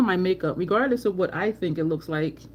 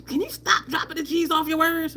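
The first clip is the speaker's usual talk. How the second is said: nagging mom; 9 semitones higher than usual. Retold or imitated.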